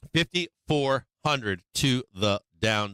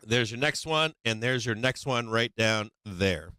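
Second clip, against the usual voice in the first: strained, tired voice; losing voice. Real, not acted. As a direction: voice giving out. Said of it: "sorry, I'm losing my voice here".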